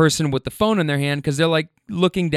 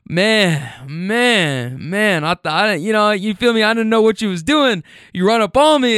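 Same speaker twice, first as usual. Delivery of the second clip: imitated rattled man; 6 semitones higher than usual. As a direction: play a spooked guy venting his relief. Acting out the startled smoker.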